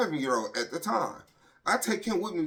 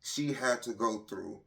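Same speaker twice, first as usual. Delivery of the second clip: heartbroken; 6 semitones lower, 4 dB quieter than usual. Real, not acted. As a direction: let the grief weigh on every word. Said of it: "this shit breaks my heart".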